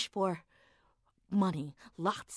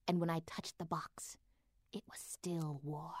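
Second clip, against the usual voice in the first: hushed, dreamy whisper; 2 semitones lower, 6 dB quieter than usual. Acted. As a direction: whisper it like a secret craving. Whispered dreamy donut story.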